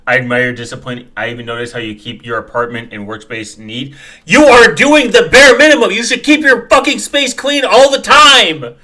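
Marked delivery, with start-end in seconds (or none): 4.2-8.8 loud, high scolding, slowing on the last line; angry scolding. Real, not acted. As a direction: tell him off hard. Scolding the video's creator.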